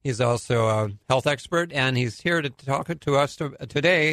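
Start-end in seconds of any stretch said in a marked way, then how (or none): 1.7-4.1 talking around a lozenge; mouth full. Real, not acted. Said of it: "I have a lozenge in my mouth".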